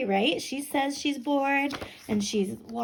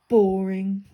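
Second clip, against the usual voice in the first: a louder, dismissive potato voice; loud bored potato; 3 semitones lower, 6 dB louder than usual. Acted. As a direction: dismiss it loudly, like a sulky potato. Potato voice in read-aloud.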